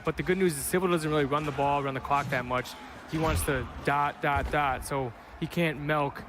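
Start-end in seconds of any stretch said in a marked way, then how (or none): 5.8-6.2 milk said as melk, Wisconsin style; Wisconsin accent. Real, not acted. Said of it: "He really said M E L K".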